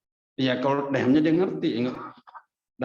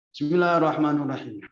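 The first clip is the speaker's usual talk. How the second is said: loud recitation; 3 semitones higher, 4 dB louder than usual. Shown as a demonstration. Wife praying aloud for husband, louder recitation. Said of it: "suaranya digedein".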